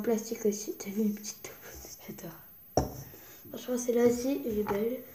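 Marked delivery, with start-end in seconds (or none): 0.8-2.9 soft unvoiced whisper. Real, not acted. Kid whispering about her snow globe. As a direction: breathe it to the camera.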